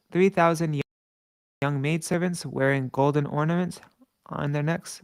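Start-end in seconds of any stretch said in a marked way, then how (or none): 1.6-5.0 reading with food in mouth; words round a mouthful of food; mouth full. Real, not acted. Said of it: "Sorry, I have something in my mouth".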